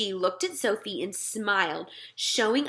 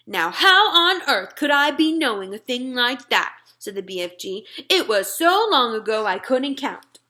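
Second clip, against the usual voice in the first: a lightly voiced gentle giant, a touch louder; friendly giant talking to a little girl; BFG giant voice; 3 semitones higher, 5 dB louder than usual. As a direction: play the big friendly giant, earnest and muddled. BFG voice held.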